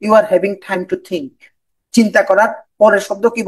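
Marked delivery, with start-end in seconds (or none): 0.0-1.3 very slow, each English word laid out; slow speaking. Shown as a demonstration. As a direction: model slow, unhurried delivery. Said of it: "যখন তুমি slowly বলছো". (খুব ধীরে, থেমে থেমে বলা)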